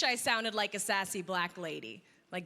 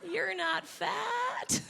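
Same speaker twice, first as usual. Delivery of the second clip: mock reassuring; 8 semitones higher, much slower than usual. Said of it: "They're always like".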